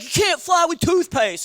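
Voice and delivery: stretched, sing-song mock yell; hammed-up TSA officer shouting. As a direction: bellow it like an outraged guard. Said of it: "he yelled at me".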